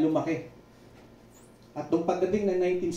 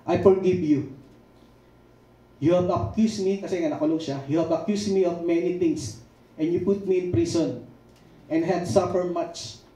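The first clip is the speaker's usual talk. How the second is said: quoting a president's radio speech, a touch louder and measured; solemn speech quote; 3 semitones higher, 4 dB louder than usual. Retold or imitated. Pastor voicing Jomo Kenyatta's radio speech to the British, solemn. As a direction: deliver it like a statesman addressing a nation. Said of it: "Sabi niya".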